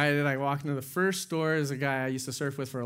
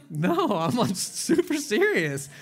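laughing; 8 semitones higher, 6 dB louder, slower than usual. Retold or imitated. Retelling own reply, laughing.

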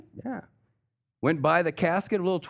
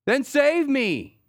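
high, loud and slow begging; a man hanging from a limb pleads loudly; desperate plea; 13 semitones higher, 5 dB louder, slower than usual. Retold or imitated. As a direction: beg to be saved. Falling man pleads with God.

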